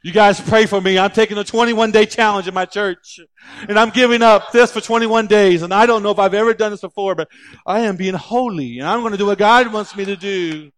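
hammed-up self-pitying churchgoer, loud; mock Facebook post. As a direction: pastor mocking members who brag online about fasting. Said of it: "don't post a picture of you on Facebook".

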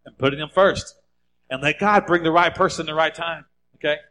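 rising exhortation, pressing the point home; fervent preacher's appeal to fathers; preaching. Acted. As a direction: urge the dads on from the pulpit. Pastor exhorts the dads.

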